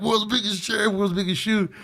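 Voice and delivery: high-pitched, excited mock announcing; excited tourist. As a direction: call it out high like a thrilled tourist. Re-enacting arrival at roadside attraction.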